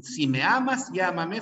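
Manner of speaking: "amas" and "llámame" each hit on the first syllable; two stressed syllables. Shown as a demonstration. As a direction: punch A in "amas" and LLÁ in "llámame". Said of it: "fíjate dónde hay fuerza de voz acá".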